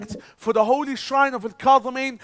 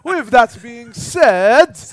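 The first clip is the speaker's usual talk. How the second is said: hammy shout; 8 dB louder, much slower than usual. Acted. Hammed-up host catchphrase.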